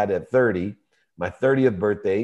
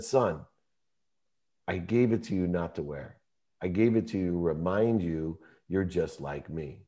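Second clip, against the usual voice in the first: softer, calm, sincere fatherly voice; gentle father; 5 dB quieter than usual. Retold or imitated. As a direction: speak quietly, like a dad owning his mistakes. Father's gentle reply on the phone.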